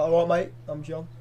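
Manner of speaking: a light hint of a Cockney mate; casual English bloke greeting, lightly done; mock English accent. Mocking a wrestler's real voice, light English accent. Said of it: "he speaks like this".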